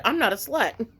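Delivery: amused, giggly denial; laughing comeback. Retold or imitated. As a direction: retell the retort while cracking up. Laughing at her own comeback.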